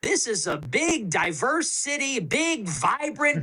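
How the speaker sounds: a hint of a dismissive politician shrugging it off; mock official voice. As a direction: brush it off like a smug bureaucrat. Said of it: "They say".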